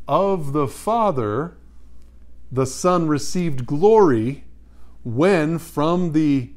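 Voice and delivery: slow, measured recital of a verse; solemn scripture quotation. A narrator's reading. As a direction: draw out each phrase with weight. Quotes scripture.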